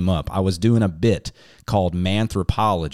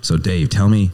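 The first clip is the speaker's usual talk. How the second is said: hammed-up cowboy Western accent, louder; bad Western accent; 4 dB louder than usual. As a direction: present the show like a hokey Western cowboy. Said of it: "I definitely put on the accent".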